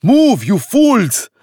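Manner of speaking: high, loud, slow bellow; whip-crack shout. Acted. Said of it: "words were like the crack of a whip".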